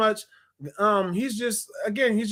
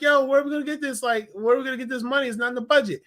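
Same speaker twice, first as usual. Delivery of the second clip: flustered teacher; 5 semitones higher, faster than usual. Retold or imitated. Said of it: "the teacher's like".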